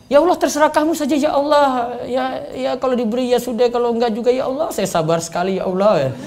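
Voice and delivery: whatever-you-want tone; limp resigned prayer. Shown as a demonstration. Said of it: "Itu doa enggak tegas".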